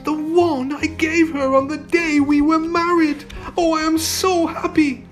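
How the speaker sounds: very high, overjoyed prince; happy exclamation. A narrator's reading. Prince finding his wedding gift to Sita, high joyful exclamation. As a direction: gush it out high with joy. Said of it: "he exclaimed".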